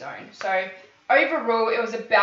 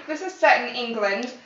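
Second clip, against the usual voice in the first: laughing; 2 semitones higher, 6 dB louder than usual. Real, not acted.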